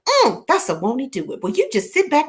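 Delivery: normal talking voice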